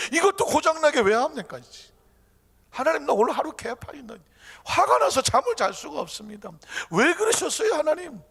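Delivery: high, exasperated outburst; arguing complaint. Acted. Believer ending a bad day, arguing angrily with God. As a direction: demand to know why, worked up. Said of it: "하고 따집니다".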